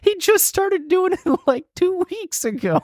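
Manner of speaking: high, laughing disbelief. Real, not acted. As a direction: talk through the giggles. Laughing about the cat.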